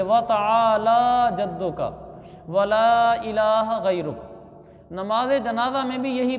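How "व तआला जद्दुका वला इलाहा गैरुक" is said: slow, measured Arabic with long vowels; correct recitation. Shown as a demonstration. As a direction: recite carefully, drawing out each long vowel. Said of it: "इसको सही पढ़ना सीखना चाहिए". (ठहर कर सही अरबी तिलावत)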